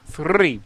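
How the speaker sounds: "Three" with a strong trilled r; rolled r. Shown as a demonstration. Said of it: "I love rolling my R's".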